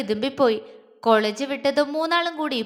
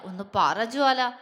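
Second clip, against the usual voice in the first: pleading; 2 semitones lower than usual. Acted. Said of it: "ദൃശ്യ കെഞ്ചി".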